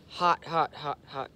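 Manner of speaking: "hot" repeated, slowly going down in pitch; hot calls dropping. Shown as a demonstration. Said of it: "slowly going down in pitch".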